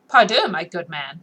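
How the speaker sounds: impatient. Acted. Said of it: "with some impatience".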